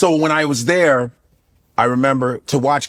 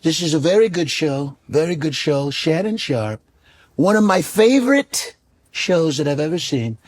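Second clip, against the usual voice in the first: Shannon Sharpe impression; 2 semitones higher than usual.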